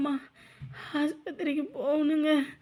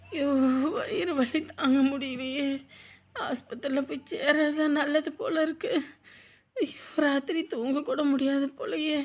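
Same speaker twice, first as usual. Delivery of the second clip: crying in pain. Acted. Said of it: "நீ அழுதுகிட்டே இருக்க".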